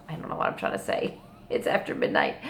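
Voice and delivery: half-laughing late-night murmur; sleepy whisper. Real, not acted. Vlogger losing her thread after midnight, whispering wearily. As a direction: drop to a tired, breathy whisper with a small laugh.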